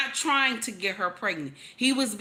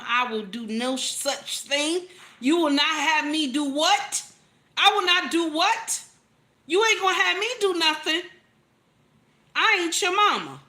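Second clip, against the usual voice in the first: nasty talk back; 5 semitones higher than usual. Retold or imitated. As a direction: snap back like a defiant nineteen-year-old wife. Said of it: "I was talking like that".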